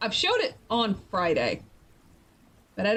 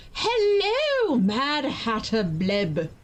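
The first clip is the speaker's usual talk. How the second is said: excited greeting; 3 semitones higher, much slower than usual. Real, not acted.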